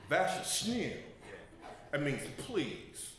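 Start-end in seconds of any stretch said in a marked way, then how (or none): 0.1-1.0 Vashasnil tossed off with a bit of sass and a laugh; with an attitude. Shown as a demonstration. Showing the congregation a sassy way to say please. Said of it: "you can say it with an attitude".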